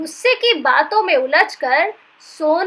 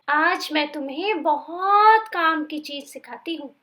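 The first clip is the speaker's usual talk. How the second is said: calm teaching. Acted. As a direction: guide him into calm breathing. Peace teaching breathing.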